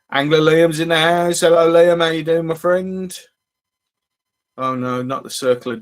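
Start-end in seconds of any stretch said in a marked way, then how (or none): 0.1-3.2 excited greeting. Real, not acted. Greeting viewer joining.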